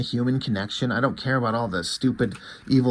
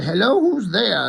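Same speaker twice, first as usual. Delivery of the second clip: higher-pitched imitation of a startled older woman; lightly acted mother-in-law, voice lifted; 7 semitones higher, 3 dB louder than usual. Ex-wife's mother calls to the visitor at her house, lightly voiced, higher. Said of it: "his ex-wife's mother".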